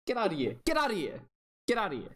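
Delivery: high-pitched, playful brush-off; mock dismissal. Real, not acted. Mock dismissal of the rival's offer.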